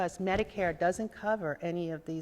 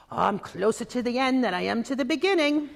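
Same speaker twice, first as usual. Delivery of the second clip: Irish brogue; 3 semitones higher, 3 dB louder than usual. Retold or imitated. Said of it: "in her Irish brogue".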